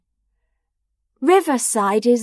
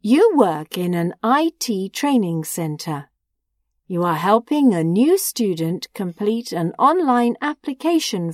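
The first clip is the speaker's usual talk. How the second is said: measured, lower instruction reading; exam instructions read; 4 semitones lower than usual. A narrator's reading. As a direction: read the task like a test recording. Exam rubric read before dialogue.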